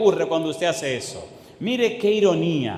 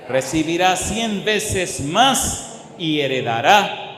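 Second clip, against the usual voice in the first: slow, louder proclamation; preaching at full force; 3 dB louder, slower than usual. Acted. Preacher to congregation, slow loud promise.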